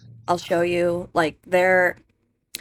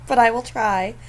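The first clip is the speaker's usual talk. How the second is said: Sim voice; 4 semitones higher, 4 dB louder than usual. Pretend. Voicing the Sim, continued.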